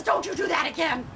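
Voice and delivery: scolding rising to high, loud wail; mad witch. Acted. Witch grabbing the cat that came back, exasperated. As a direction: exasperation building to an outburst. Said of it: "she was really getting mad".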